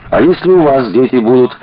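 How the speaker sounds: lightly voiced unsure question; hesitant. A narrator's reading. Ганушкин hesitantly asks Коля and Маша about children, unsure. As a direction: ask it as if unsure of the answer. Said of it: "неуверенно сказал Ганушкин".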